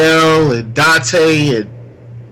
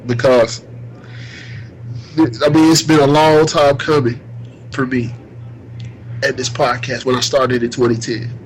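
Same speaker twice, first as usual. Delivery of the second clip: teary-eyed. Real, not acted. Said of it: "I'm sorry if I'm getting teary-eyed right now".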